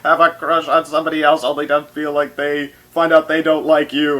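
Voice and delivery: high, loud, breathy mock meltdown in Rarity's voice; Rarity flipping out. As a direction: wail it like a pampered diva losing it. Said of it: "the scene is very funny where she finally flips out".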